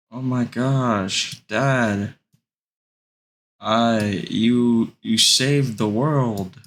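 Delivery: drawn-out, mock-awed son; hammed-up happy amazement. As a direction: gush slowly as a delighted kid. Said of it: "he's so happy".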